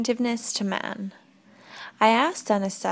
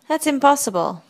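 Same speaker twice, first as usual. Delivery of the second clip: higher, louder burst of disbelief; raised-voice "impossible!"; incredulous protest; 6 semitones higher, 6 dB louder than usual. A narrator's reading. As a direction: object at once, in disbelief. Startled objection to her claim.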